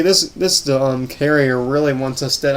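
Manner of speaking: stumbling over the words; repeating words, tongue-tied; stuttering. Real, not acted. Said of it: "I'm sorry I'm stuttering a little bit".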